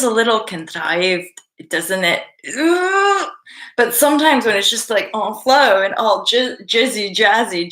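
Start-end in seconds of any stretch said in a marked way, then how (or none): 2.6-3.3 high-pitched "ugh"; disgusted groan. Acted. Disgust at own contrived accent.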